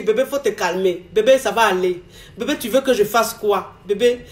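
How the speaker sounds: hint of a married man calming his girlfriend; gently reassuring, low and hushed; soothing lover.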